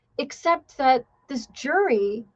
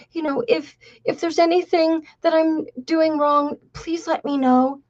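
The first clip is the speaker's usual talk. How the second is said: small timid voice; 4 semitones higher than usual. Retold or imitated. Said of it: "a small voice".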